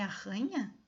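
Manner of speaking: ARRANHA with a throaty, H-like RR; arranha, the double R exaggerated; double-R sound. Shown as a demonstration. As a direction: question it with a strong guttural R in arranha. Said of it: "aranha com dois R's".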